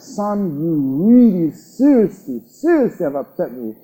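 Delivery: a lightly voiced angry father. Father showing his son how upset he is, mildly angry. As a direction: tell the son off with weighted emphasis. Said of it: "that father is angry with his son".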